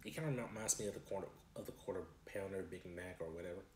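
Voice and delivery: speaking between burger bites; talking while chewing. Real, not acted. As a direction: mouth partly full of food. Seen 2: Burger held throughout; bites at mouth from 12.8s while still talking.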